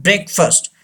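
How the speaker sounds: "breakfast" said as BREK-fust; correct pronunciation. Shown as a demonstration. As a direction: say "breakfast" with a short schwa in -fast. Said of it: "Say this word". ("breakfast" का सही उच्चारण, "ब्रेकफ़स्ट")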